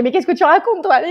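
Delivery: high, scolding mock disbelief; high, mock-indignant scolding of her partner; incredulous retort. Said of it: "Je la regarde, je fais".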